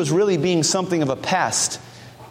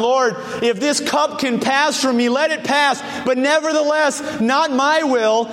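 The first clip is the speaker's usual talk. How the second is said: higher, earnest pleading prayer; Jesus pleading in the garden; 5 semitones higher than usual. Retold or imitated. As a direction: beg the Father from the heart, pitched up. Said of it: "as Jesus prayed in the garden".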